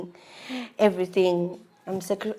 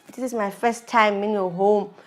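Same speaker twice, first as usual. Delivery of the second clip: building from normal to higher, louder pleading; retold protest; 4 semitones higher, 6 dB louder than usual. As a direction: plead with rising force at being ignored. Protesting to her silent husband.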